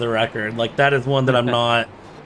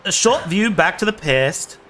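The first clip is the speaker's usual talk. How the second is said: higher-pitched shot at Aussie; attempted Australian accent; 5 semitones higher than usual. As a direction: wobbly try at an Australian accent. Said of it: "I can't do an Aussie accent".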